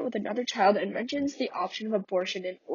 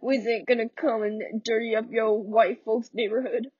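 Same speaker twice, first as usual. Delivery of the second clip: Walter's bitter outburst. Acted. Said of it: "I'm not good at accents".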